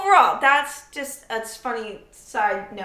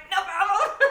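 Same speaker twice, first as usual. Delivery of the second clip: overly polite stranger; 10 semitones higher than usual. Retold or imitated. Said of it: "you're like".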